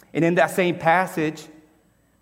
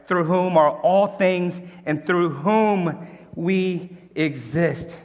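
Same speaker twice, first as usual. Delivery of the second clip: a touch louder, rising fervour in the reading; worked up; 4 dB louder than usual. Real, not acted. Preacher reading Corinthians to the church, getting worked up. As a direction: read the verse with mounting passion. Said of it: "I'm getting worked up".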